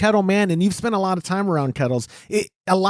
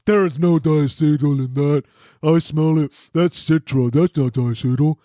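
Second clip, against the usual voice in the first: a lightly put-on dopey voice for Todd; mock the friend with a dumb voice; lightly voiced know-it-all buddy; stupid voice imitation; 4 semitones lower than usual. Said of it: "the guy with the stupid voice".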